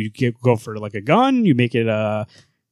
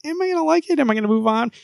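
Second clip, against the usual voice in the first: mock anxious self; faster than usual. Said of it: "I was like".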